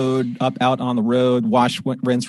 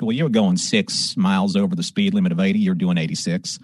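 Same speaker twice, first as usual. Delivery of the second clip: put-on lower, brisk Texas trooper accent; trooper's accent; 5 semitones lower than usual. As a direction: imitate a Texas trooper stating the offence. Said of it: "you have the accent".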